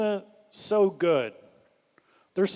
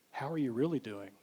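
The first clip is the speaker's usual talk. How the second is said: softer, lower, sincere check-in question; quiet, lowered probing question; 3 semitones lower, 8 dB quieter than usual. Shown as a demonstration. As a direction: drop your voice to ask how they really are. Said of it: "we lower our voice and we ask them a little bit different".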